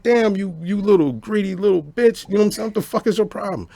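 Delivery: high, squeaky indignant scolding; mock outraged yell. Scolding the greedy woman about the beans, in a high mock yell. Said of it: "So I'm like".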